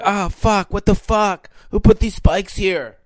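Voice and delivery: high cartoon bird outrage. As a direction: play the bird, annoyed. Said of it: "and be like".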